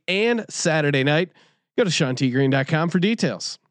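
brisk, punchy podcast ad read; sponsor ad read. Acted. Host plugging the show's sponsors, ad read.

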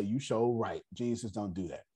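low, soft self-talk; quietly agreeing in one's own head; imitated inner voice. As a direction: drop it down as if thinking to yourself. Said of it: "in his own head that say".

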